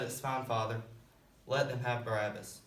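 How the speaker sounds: low, gentle surrender; calm acceptance. Acted. Jesus yields quietly to the Father.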